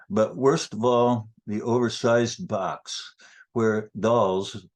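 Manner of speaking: deliberate poem reading, words spaced out; poetry reading. Acted. Poet reading Barbie factory poem to audience, poetry reading. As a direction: recite it phrase by phrase.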